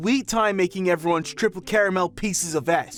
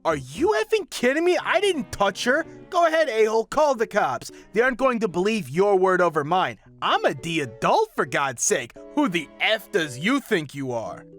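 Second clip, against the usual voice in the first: furious outburst; 5 semitones higher than usual. Acted. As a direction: explode in outraged denial. Businessman explodes at narrator.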